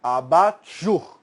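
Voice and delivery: Abajur stretched slowly, syllable by syllable; teacher's slow model of Abajur; slow drawn-out abajur. Shown as a demonstration. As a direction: spell out Abajur slowly for the class. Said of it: "ela é do francês".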